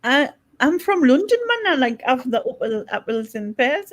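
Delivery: loose, lively, badly faked Cockney; attempted Cockney accent. Woman trying Cockney for the group, badly faked Cockney. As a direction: have a clumsy go at Cockney.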